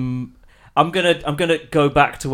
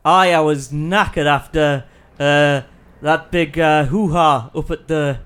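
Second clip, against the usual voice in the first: character voice. Acted. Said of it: "your personality totally changes with your voice".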